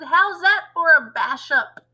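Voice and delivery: high, loud, fast crone demand; screechy grandma. Acted. Voices Grandma.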